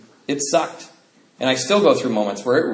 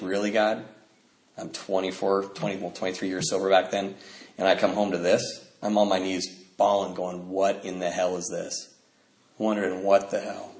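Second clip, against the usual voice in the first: despairing plea to God; 5 semitones lower, 6 dB quieter than usual. Retold or imitated. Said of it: "you just think".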